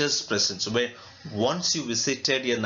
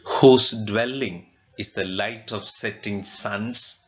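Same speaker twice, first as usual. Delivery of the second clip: declaimed verse; 3 semitones lower, 5 dB louder than usual. Acted. Teacher declaims poem line.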